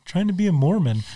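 quoted line breaking into a laugh; chuckling Peter quote; laughing through quote. Retold or imitated. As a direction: say it while starting to laugh. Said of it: "Peter's answer".

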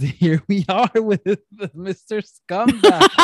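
slow, loud, laughing announcer-style intro; mock guest introduction. Introducing the ex as a guest, loud and laughing. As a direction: present him like a game-show villain.

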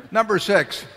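loud, high call to the hall. Real, not acted. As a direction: call the next number out loud. Calling next questioner in hall.

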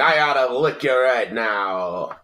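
mock old-time tough talk; lightly voiced fifties TV character; forties-fifties talk. Host imitating dated TV threats, forties-fifties talk. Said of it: "still talking like the fucking forties and fifties".

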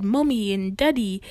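lightly imitated English child's words; Peppa Pig British accent. Co-host on kids copying a cartoon, mock British accent. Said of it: "like Peppa Pig".

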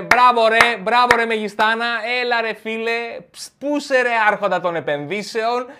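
loud, high mocking applause; mocking cheers. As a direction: jeer at the ruined tycoon. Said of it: "Σηκώνουν τα πάνω και λένε".

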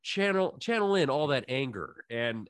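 hammed-up tune-in plug; mock promo announcer. Host plugging next week's show, mock announcer.

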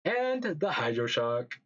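half robot voice, stiff and even. Real, not acted. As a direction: sounds like a glitchy robot. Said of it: "why do I sound like a robot".

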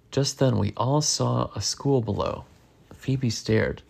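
lively read-aloud with swooping pitch; animated picture-book narration; story reading to children. A narrator's reading. Reading a bug adventure aloud to a child, animated storytelling.

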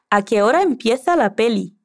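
light Castilian accent, "empieza" said with a th sound; mild Madrid accent, lisping the z in "empieza"; Spain Spanish accent. Shown as a demonstration. Teacher imitates Celia's accent for the learner, a light Castilian accent. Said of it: "Intentemos con el acento de Celia".

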